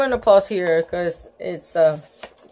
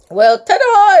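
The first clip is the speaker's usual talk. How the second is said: ta-da flourish; 8 semitones higher, 7 dB louder than usual. Acted. Lucille showing off.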